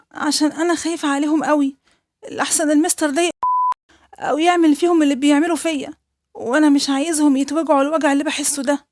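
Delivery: put-on a small boy confessing something terrible; frightened little boy. Boy begs teacher for help.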